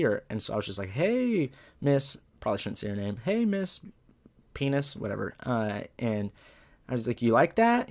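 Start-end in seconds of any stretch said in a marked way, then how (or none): 0.9-2.2 drawn-out high "hey" called across; high, playful hail to someone in the stands; calling out. Retold or imitated. Calling to teacher from the track. 3.2-5.0 calling out. Retold or imitated. Calling to teacher from the track. 7.2-7.9 cocky taunt. Retold or imitated. Taunting teacher after winning race.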